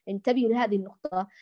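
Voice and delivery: normal talking voice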